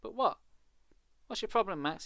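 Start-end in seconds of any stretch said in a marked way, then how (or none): 1.2-2.0 demanding. Acted. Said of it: "he demanded".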